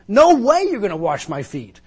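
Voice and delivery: loud, high, flat-out no; emphatic refusal. Retold or imitated. Peter refusing Jesus, loud and high. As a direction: refuse outright, forcefully. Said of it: "the most emphatic way you could ever say it".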